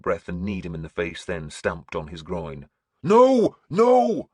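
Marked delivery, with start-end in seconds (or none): 3.0-4.3 loud, much higher repeated roar. A narrator's reading. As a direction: bellow it across the deck. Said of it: "the voice still roared".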